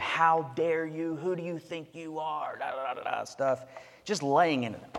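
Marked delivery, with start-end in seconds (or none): 0.0-2.6 indignant, angry, screaming preacher-style rant. Acting out a preacher going off on his congregation, retelling a scream. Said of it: "he starts screaming at them".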